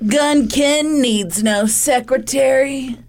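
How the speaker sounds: slow, boastful tough-guy voice; gruff Ken voice. Retold or imitated. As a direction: puff up like a hardboiled detective. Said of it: "He said".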